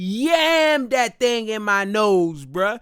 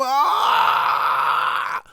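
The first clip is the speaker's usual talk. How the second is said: retold scream; 4 semitones higher, 3 dB louder than usual. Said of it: "And I'm sitting there screaming".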